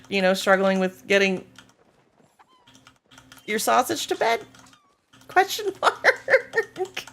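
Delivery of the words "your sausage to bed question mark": mock question reading. Reading chat's question aloud.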